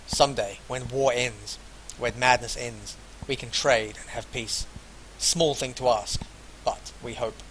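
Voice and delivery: deliberate, projected reading of a character's lines; read-aloud dialogue. Acted. Player voices Masha about her lands, deliberate read-aloud. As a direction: read the dialogue out without an accent.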